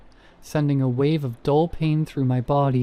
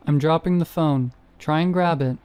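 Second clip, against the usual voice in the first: yelling; 3 semitones higher than usual. Acted. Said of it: "I yelled over her screams".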